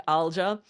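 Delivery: ALJA read the English way, with a hard j; wrong English reading of Alja; mispronounced name. Retold or imitated. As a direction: say Alja as an English reader would, j as in judge. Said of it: "keeps pronouncing my name wrong".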